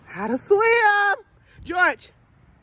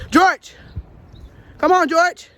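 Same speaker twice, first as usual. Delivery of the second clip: calling out; 5 dB louder, slower than usual. Real, not acted. Calling chicken loudly.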